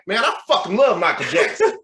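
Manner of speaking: high, loud Southern fan; Southern accent. Retold or imitated. Stranger at the gym declares his fandom, Southern accent. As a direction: gush in an imitated Southern accent. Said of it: "with Southern accent".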